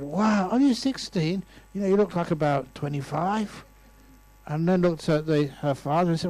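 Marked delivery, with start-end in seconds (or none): 0.0-3.6 feigned amazement. Retold or imitated. Acted amazement at the girl's age.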